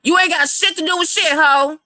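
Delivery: high, furious yelling; angry shout. Acted. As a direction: tell her off at full volume. Heated argument, telling her off.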